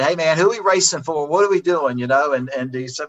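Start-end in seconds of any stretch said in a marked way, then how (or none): 0.0-2.0 upbeat, raised voice, eager question; voicing a friend eager to race; excited. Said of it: "you know, he was excited".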